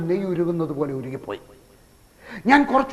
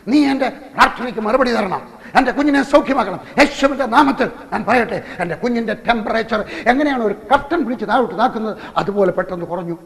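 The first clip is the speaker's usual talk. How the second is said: crying out to God; 3 semitones higher than usual. Retold or imitated. Father retelling his prayer for the sick baby, fervent raised plea. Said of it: "ദൈവത്തോട് നിലവിളിച്ചു".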